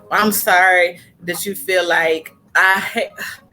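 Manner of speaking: slow, grudging, dragged-out sorry; mock half-hearted apology. Mimicking a partner's half-hearted apology, slow and grudging. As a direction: drawl the apology like you don't mean it. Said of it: "And don't say that".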